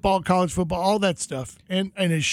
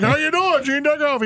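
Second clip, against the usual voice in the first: higher-pitched imitation of a hearty broadcaster; hammed-up introduction of himself; Gene Deckerhoff; 7 semitones higher than usual. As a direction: play the showman greeting a fan. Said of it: "you know how Gene is".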